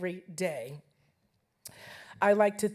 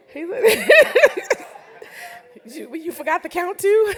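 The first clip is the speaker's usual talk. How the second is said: laughing; 11 semitones higher, 11 dB louder than usual. Real, not acted. Laughing at husband forgetting years.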